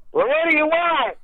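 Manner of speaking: a mild mock shout at the visitor; mock yell through door. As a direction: call through the door, lightly yelled. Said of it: "he's just yelling through the door".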